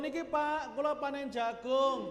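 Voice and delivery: farmer offering harvest. Acted. Farmer calling to his neighbour with corn, lightly acted offer. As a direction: lightly act out a farmer sharing his crop.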